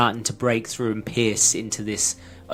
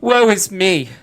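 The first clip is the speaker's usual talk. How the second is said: melodramatic tulip. Acted. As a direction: wail your woes like a tragic poet flower. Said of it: "And it says".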